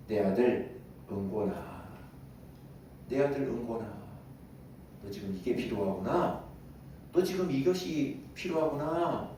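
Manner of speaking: unhurried fatherly voice, long pauses between phrases; God addressing His child. Acted. God calling a congregant's child to offer help, gentle fatherly voice. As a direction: gently reassure your child, taking your time. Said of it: "하나님이 보시고 계실 때".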